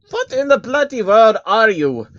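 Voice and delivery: high, loud British scowl; scowling Baron. A narrator's reading. The Baron confronts the creature in his chair, scowling. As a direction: demand it with a scowl. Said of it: "a scowl".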